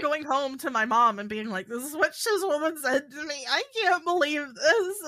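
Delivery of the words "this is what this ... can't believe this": high, wailing retold sob; hammed-up tearful disbelief; mock sobbing. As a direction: imitate yourself crying to mom, pitched way up. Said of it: "I'm sobbing. I'm, like, crying my eyes out".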